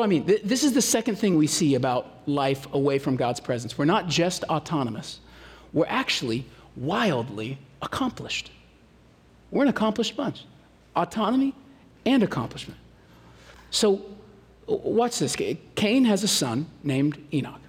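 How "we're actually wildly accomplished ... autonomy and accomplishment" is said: whispered emphasis. Real, not acted. Stressing a point.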